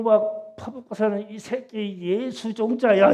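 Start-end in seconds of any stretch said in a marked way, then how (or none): 1.3-3.1 slow, loud insult of the friend; retold friend's angry curse, a bit louder; retold cursing, louder. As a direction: hurl the insult slowly and loudly. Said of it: "이러는 거요".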